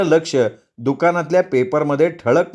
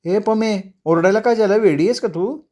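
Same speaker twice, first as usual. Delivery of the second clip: higher-pitched, taken-aback friend; scolding friend; 7 semitones higher than usual. Acted. Friend asks the wife why she is yelling, scolding. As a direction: chide her for the sudden shouting.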